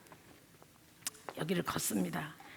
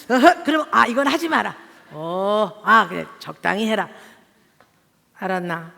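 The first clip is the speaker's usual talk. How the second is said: mock stern father; 6 dB louder than usual. Imitating husband's short sayings.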